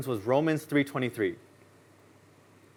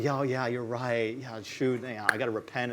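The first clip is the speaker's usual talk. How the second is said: slow, softer, sheepish giving in; meek agreement; 5 semitones lower, 8 dB quieter than usual. Retold or imitated. Young person accepting correction from an elder, soft sheepish. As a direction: concede humbly, quietly.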